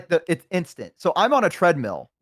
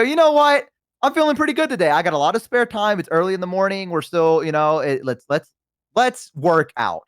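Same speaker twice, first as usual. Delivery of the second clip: excited; 3 semitones higher than usual. Retold or imitated. Retelling own upbeat gym decision.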